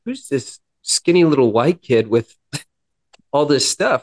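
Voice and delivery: bewildered cop. Retold or imitated. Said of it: "he's just kind of bewildered".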